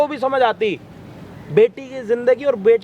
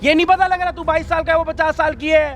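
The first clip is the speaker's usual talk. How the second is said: shouting match; 4 semitones higher than usual. Acted. Berating him in the quarrel.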